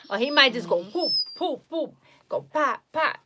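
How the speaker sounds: put-on high sing-song baby talk. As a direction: coo to the puppy.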